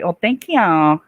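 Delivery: thrilled by a viewer's kind words; excited squeal. Real, not acted. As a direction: burst out with delight at the compliment. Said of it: "I got a little excited".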